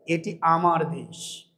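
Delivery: low, soft and slow; soft proud quote. Retold or imitated. Poorest citizen quoted saying this is his country, softly. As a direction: say it hushed, with quiet pride.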